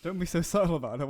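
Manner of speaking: quick, laughing echo of a mock Aussie line; amused, hurried mock quote. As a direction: repeat it fast through laughter.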